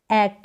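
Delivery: "ऐक" as English "ack", open vowel and final k; ack sound. Shown as a demonstration. Teacher showing how final ACK is read, ack sound. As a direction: say "ऐक" in one syllable, like the end of "back". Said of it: "इसको ऐक करके पढ़ेंगे".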